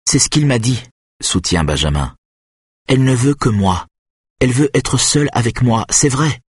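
put-on frightened boy trying to convince Marek. Benjamin insists, voiced higher.

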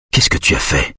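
low, hushed man's question; half-voice. A narrator's reading. Husband questions wife in hospital, low half-voice. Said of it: "demande-t-il à mi-voix".

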